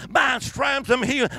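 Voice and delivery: put-on retelling an old lady's loud declaration; imitated shout. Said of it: "was shouting aloud".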